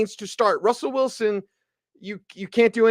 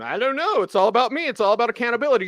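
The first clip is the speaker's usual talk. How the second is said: higher, fast mocking coach voice; parroting the coach's empty excuses; mock Hackett; 4 semitones higher, faster than usual. Host mocking the head coach's press-conference excuses, higher, fast and sneering.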